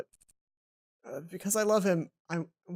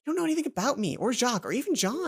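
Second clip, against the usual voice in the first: higher, biting rebuke; heated scolding; 6 semitones higher than usual. Acted. Hana telling her roommate off, higher and heated. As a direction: throw it back at her, heated.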